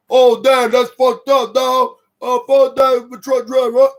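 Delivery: hollering like the crowd behind the camera; mock bystanders yelling. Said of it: "you hear the people in the back of the video".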